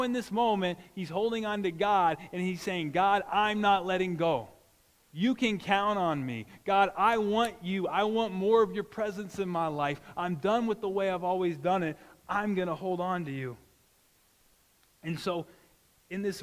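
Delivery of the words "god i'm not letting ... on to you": 声を張り上げ、ゆっくり神に誓う; ヤコブとして力強く叫ぶように; earnest vow. Acted. Jacob vowing to God.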